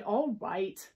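grudging, sighed agreement; sighed consent. Acted. Unicorn lets friends come along, mildly grudging. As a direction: give in with a sigh. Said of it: "Unicorn sighed".

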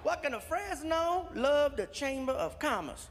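mildly excited read-out of a card. Retold or imitated. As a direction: imitate a pleased gift recipient reading aloud. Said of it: "He's getting excited over every single item".

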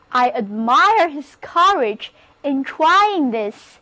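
the sentence read slowly, every word clear; slow model reading. Shown as a demonstration. Teacher reading the example sentence slowly for her class. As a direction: read it slow so students can follow. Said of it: "例如这个句子".

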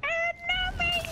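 high, British accent, put-on. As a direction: fake British accent, chirpy. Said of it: "Now I got it back".

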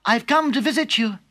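put-on the girl arriving at the door; little girl. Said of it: "knocked at the door".

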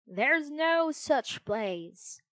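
high, slow, firm little cricket. A narrator's reading. Cricket warning Pinocchio, high and insistent. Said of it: "said the cricket".

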